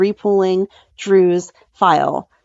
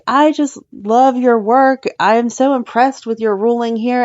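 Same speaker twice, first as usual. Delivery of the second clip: gushing flattery; 4 semitones higher than usual. Retold or imitated. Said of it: "Gregory's like".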